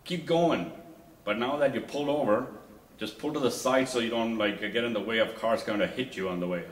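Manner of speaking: loud, high, scolding shout; police officer shouting at wife for stopping on the road, loud and high; officer yelling. Retold or imitated. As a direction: yell it at the driver like an angry cop. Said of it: "the police officer is yelling at her".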